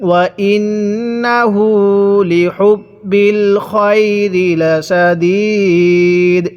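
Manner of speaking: slow recitation with held nasals and long vowels; Quran recitation demo. Shown as a demonstration. Teacher leading students to read along, slow Quran recitation. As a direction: stretch the closing syllable right out. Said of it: "এরকমভাবে শিখব".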